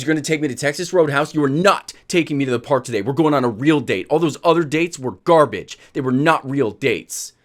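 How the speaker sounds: retold insistent demands, punched words; annoyed girlfriend. Girlfriend demanding a real date, mildly angry imitation. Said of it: "she's pissed off".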